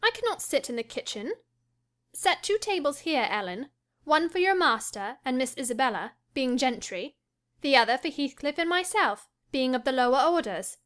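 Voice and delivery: mock his snobbery playfully; mocking teasing. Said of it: "half angry, half laughing at his fastidiousness".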